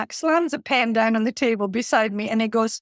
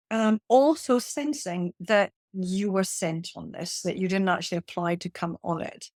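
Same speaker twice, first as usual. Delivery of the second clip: calm, measured; 2 semitones lower, 4 dB quieter than usual. Retold or imitated. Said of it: "And then I went".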